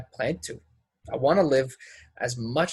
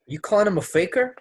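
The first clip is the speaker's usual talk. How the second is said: indignant; 8 semitones higher than usual. Acted. Angry accusation in a quarrel.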